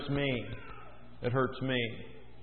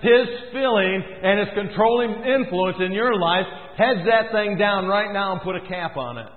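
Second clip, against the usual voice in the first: voice of God; 2 semitones higher than usual. Retold or imitated. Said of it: "he says".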